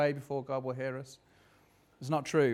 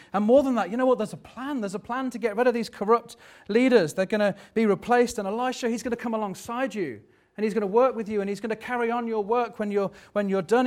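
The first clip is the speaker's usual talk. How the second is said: higher-pitched, urgent encouragement; eager, raised pitch, pressing on; rousing reassurance; 5 semitones higher, 3 dB louder than usual. Acted. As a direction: lift his spirits with news of a plan. God voiced encouraging Elijah with plan.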